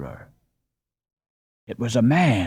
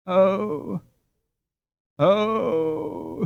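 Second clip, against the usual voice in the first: moaning; 6 semitones higher than usual. A narrator's reading. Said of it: "he moaned".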